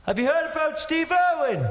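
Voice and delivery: high-pitched call from the crowd; imitated heckler's shout. Audience member calling to the comic onstage, mock shout. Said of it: "somebody in the audience shouted".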